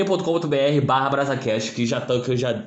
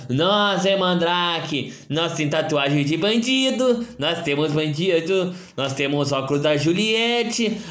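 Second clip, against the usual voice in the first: slow dumb mocking Mandrake guy; slower than usual. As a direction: drag out the boast slowly. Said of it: "volta aparecendo esse mongol". (imitando o Mandrake, bem devagar)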